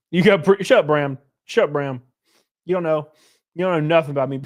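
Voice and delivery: playfully defensive snap at the chatter Bram; mock defensive. Mock-defensive retort to chat teasing.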